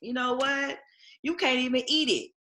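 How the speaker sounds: high, loud mocking taunt; mock scolding. Friend mocking what she'd tell her man, high taunt. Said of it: "I would have been like".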